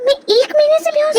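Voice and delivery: high-pitched, incredulous question; shocked question. Acted. Patient learning of a month unconscious, shocked. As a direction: question it in disbelief.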